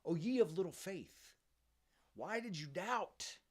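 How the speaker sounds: mock-solemn chiding, voice lifted; Jesus. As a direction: imitate a reproachful scolding, stretching the question. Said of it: "Jesus says to him".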